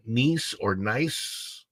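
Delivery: slow, careful "niece" or "nice"; trying two pronunciations. Shown as a demonstration. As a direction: slowly sound out "Niece" and "nice" as two options. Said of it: "how to pronounce".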